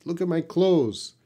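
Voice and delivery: "clothes" said as "close", with no th; "clothes" simplified to sound like "close"; cheat pronunciation. Shown as a demonstration. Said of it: "C L O S E".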